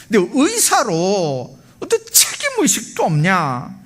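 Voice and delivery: retold angry shout, pitched high; angry outburst. Father berating the surgeon for arriving late, angry outburst. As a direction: act out an indignant father berating someone. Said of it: "고함을 질러댑니다".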